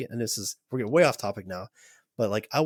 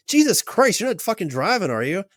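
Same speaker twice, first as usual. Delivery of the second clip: much higher, louder startled yell; shocked outburst; 10 semitones higher, 6 dB louder than usual. Retold or imitated. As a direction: blurt it out like she just saw him driving. Therapist startled by him on camera.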